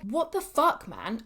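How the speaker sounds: blurting it out in disbelief; half-mock exasperation; exasperated outburst. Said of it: "that's literally what I said to my husband".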